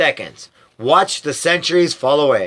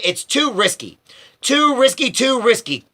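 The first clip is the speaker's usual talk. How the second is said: croaked; 9 semitones higher than usual. A narrator's reading. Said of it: "croaked Grandma Georgina".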